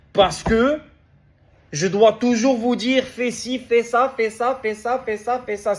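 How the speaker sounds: énervé. Real, not acted. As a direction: rattle off the orders, getting worked up. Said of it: "si je m'énerve". (énervé, exaspéré)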